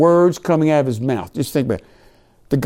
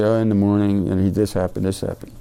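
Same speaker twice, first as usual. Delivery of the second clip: offhand reading; 5 semitones lower than usual. Acted. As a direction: read it over without any emphasis, voice sinking. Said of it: "Not just read over and say".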